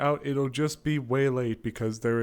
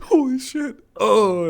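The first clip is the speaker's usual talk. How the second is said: loud, high pained laughter; laughing through pain; 11 semitones higher, 12 dB louder, much slower than usual. Real, not acted. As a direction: laugh out words while it hurts. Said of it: "it hurts to laugh".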